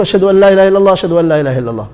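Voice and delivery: both Ashhadu phrases in one run, falling at illallah; joined, then stop. Shown as a demonstration. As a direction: link the pair, pause only after the last illallah.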